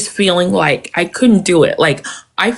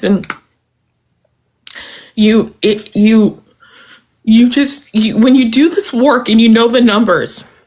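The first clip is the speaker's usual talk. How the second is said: very emotional, overcome with emotion, much slower pace; 2 semitones higher than usual. Speaking to another person who comforts them, getting very emotional. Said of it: "I'm sorry, just getting very emotional".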